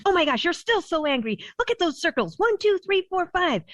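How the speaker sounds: high-pitched, animated counting to meet her energy. Retold or imitated. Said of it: "I was louder".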